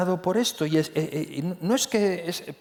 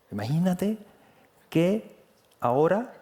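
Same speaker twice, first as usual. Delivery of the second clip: Andalusian accent; 3 semitones higher than usual. Shown as a demonstration. Preacher showing the congregation an Andalusian accent. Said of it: "tuviera que hablar así".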